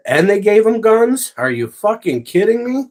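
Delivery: high, loud incredulous outburst; practically yelling in disbelief at the guards; outraged. Real, not acted. Streamer ranting at armed guards to chat, outraged high voice.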